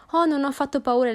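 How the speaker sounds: firm. Acted. Youngest daughter brushing off her mother's worry, firmly. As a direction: answer with confident firmness, chin up. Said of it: "rispose Lydia con fermezza".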